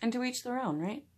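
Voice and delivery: talking while applying lipstick. Real, not acted. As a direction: lips stretched, mid lipstick. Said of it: "Hard to talk while putting on lipstick".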